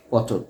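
পটল said as pô-ṭol, with o after ট; o sound after ট. Shown as a demonstration. Teacher showing students that পটল sounds like pô-ṭol, o-sound demo. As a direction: say পটল with a rounded o in the second syllable. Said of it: "পটলের উচ্চারণ হচ্ছে কিন্তু এরকম".

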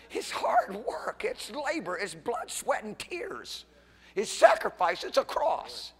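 high, ringing, slow-stretched sermon cry; fervent preaching cry. Acted. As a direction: lift the congregation with a soaring cry. Preaching climax, pitch leaps high.

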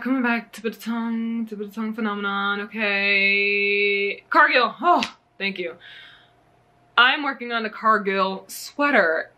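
ordinary talk, nothing marked

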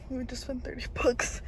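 whispered complaint. Real, not acted. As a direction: hush it like a confession.

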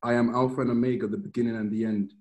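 measured Bible reading voice; solemn reading of scripture. Acted. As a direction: read it out like holy text. Reads Revelation aloud.

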